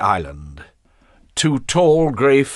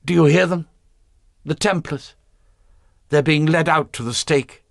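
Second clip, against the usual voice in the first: excited cry; 7 semitones higher than usual. A narrator's reading. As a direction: call out high and thrilled. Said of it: "Then she cried".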